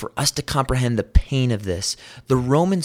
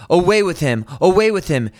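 loud, high repeated cry; loud mob cry, much higher; crowd crying out; 6 semitones higher, 4 dB louder, faster than usual. A narrator's reading. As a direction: hurl it back like a mob demanding. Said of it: "They cried out".

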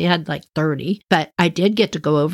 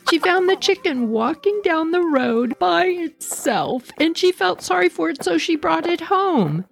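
a higher, fretful caller explaining; lightly voiced upset daughter; 5 semitones higher than usual. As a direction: relay her worried words, a bit higher. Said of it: "And she said".

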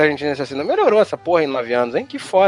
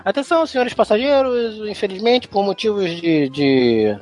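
airport announcement; 2 semitones higher than usual. Retold or imitated. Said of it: "a mulher fala".

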